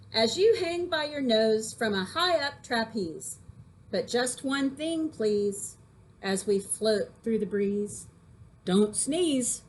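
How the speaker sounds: put-on lively read-aloud of a funny poem for kids. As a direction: read it like a playful teacher, with a touch of rhythm. Teacher reads poem to class.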